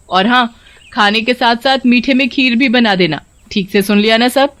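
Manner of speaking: bossy sister-in-law. Acted. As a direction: order the daughter-in-law about with mild sarcasm. (ताने मारती जेठानी की हल्की आवाज़)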